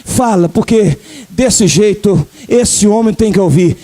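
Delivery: low, gentle fatherly voice of God; God speaking tenderly. Pretend. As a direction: coax the donkey to speak, low and kind. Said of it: "eu imagino Deus falando assim".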